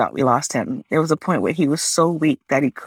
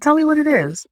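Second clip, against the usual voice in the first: much higher, pleading urgency; pressing plea; 10 semitones higher than usual. Retold or imitated. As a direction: beg him to say it. Daughter presses father for diagnosis.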